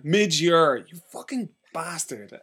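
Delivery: loud outburst, then slow cursing; playful sore-loser outrage; mock outrage. Real, not acted. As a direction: curse your rival, drawn out. Mock outrage at losing a quiz game.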